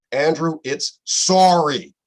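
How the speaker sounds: mock scolding scream. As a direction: imitate a director yelling, drawing out "sorry". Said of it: "American directors scream at me".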